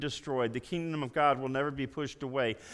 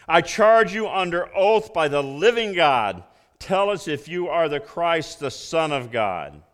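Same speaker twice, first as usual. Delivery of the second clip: loud, commanding oath; high priest's solemn charge; 6 dB louder than usual. Acted. High priest putting Jesus under oath, loud and commanding. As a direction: order him to answer, forcefully. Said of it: "The high priest said to him".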